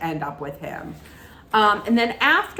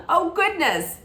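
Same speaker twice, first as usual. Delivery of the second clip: a rising, startled "Oh, goodness"; imitating her taken-aback reply; lightly mock startled mother; mildly surprised oh goodness; 9 semitones higher than usual. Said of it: "it's not as bad as "thank you," but it's not like... it's not the greatest".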